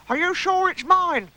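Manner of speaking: high, drawn-out squeak; slow high-pitched eager question; excited squeak. Acted. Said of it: "squeaked Piglet excitedly".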